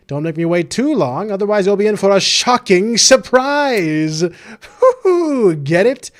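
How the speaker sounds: playful villain announcer voice; mischievous mascot host. Acted. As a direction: tease them like a gleeful host.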